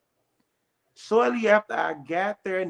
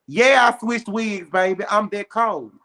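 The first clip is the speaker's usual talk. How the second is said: sassy brag; 3 semitones higher, 4 dB louder than usual. Real, not acted. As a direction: own it, unapologetic. Boasting about switching wigs.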